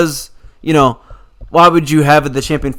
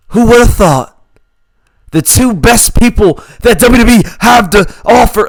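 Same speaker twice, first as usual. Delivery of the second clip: mock gushing; 5 semitones higher, 4 dB louder than usual. Mocking Sami Zayn's fawning promo.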